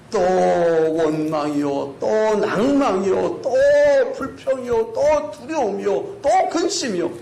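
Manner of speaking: weary litany with stretched words; exasperated, rising roll call; drawn-out listing. Real, not acted. Reciting recurring faults in drawn-out list.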